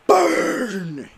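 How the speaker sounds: high, loud mock scream; Monty's scream. Monty screaming a taunt at Burntrap, loud and high. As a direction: belt the word out like a taunting robot. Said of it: "Monty would scream".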